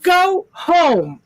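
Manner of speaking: high, drawn-out playful command; teasing mock order, high voice; mock scolding order.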